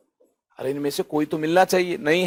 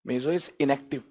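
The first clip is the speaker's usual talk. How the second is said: "meso is inactive" repeated much softer and lower; 3 semitones lower, 9 dB quieter, much slower than usual. Shown as a demonstration. Teacher repeating the rule, quietly, to let it sink in. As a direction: echo it quietly to yourself.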